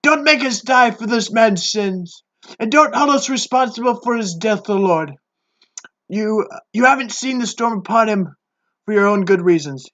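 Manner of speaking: sailors begging God not to let them die; pleading sailors. Acted. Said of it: "they pleaded".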